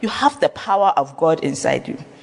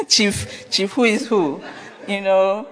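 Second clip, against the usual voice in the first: mocking titles with real laughter; laughing; slower than usual. Real, not acted. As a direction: laugh through the words.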